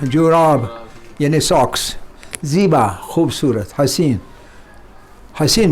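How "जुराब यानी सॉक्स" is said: ordinary talk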